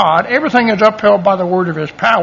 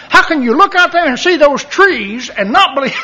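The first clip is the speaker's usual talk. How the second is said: higher, emphatic mock rant; imitating incredulous coworker; 6 semitones higher than usual. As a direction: play the coworker launching into his favorite argument. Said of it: "He's gonna talk about the trees".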